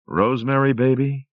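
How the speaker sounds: croaking devil. A narrator's reading. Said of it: "he croaked".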